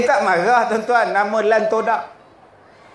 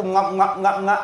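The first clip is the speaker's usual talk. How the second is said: chomping noises; 2 semitones lower than usual. Retold or imitated. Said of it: "makan mentah tu".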